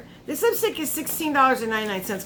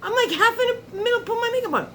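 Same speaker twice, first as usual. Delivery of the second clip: much higher-pitched, exasperated disbelief; retold freaking out; 12 semitones higher, faster than usual. Vlogger retells losing a lash mid-makeup, freaking out. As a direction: replay your freak-out in a high, incredulous voice. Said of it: "freaking out".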